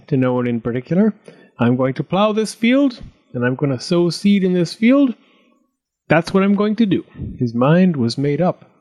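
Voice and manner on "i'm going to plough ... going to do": higher-pitched, determined declaration; resolute. A narrator's reading. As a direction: announce your plan with growing conviction. Farmer declares his plan to plough.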